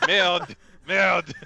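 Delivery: French curse, clipped and loud; French accent. Pretend. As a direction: swear like a French chef. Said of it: "just adopt your accent".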